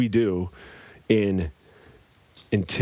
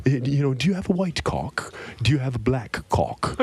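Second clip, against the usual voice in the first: bad English accent; 3 semitones higher than usual. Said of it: "I can't really do an English accent".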